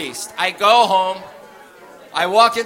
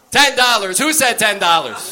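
calling out; 3 semitones higher, 4 dB louder than usual. Retold or imitated. Cops mocking, calling out.

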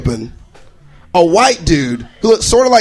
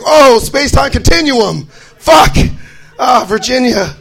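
higher, louder dismay that fades; comic panic; 3 semitones higher, 3 dB louder, slower than usual. Retold or imitated. Stranded traveler realizing the time slip, mock panic.

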